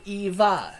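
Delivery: Eva said clearly, EE-vuh, not evil; corrective pronunciation. Shown as a demonstration. Game master correcting the player's name: Eva said as EE-vuh. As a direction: spell out Eva slowly as EE-vuh. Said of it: "Not evil".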